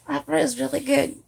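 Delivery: improvised Scottish accent at normal volume; attempted Scottish accent. Shown as a demonstration. Testing a Scottish accent for listeners, firm Scottish attempt. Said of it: "maybe I could try you doing a Scottish".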